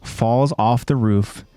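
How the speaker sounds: measured, dramatic recap narration; story narration. A narrator's reading. Host recaps a violent anime scene for listeners, dramatic narration. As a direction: narrate it slowly in phrases with suspenseful pauses.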